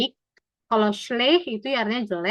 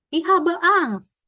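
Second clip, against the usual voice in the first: slow model phrase; 8 semitones higher, 5 dB louder, much slower than usual. Shown as a demonstration. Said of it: "teacher models the phrase".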